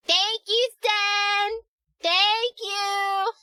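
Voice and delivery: high, loud gushing thank you; excited thanks. Real, not acted. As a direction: gush with real delight. Thanking the gift giver.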